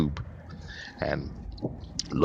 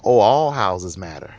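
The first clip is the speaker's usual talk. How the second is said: mock holler; 6 dB louder, slower than usual. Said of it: "You would not then holler out".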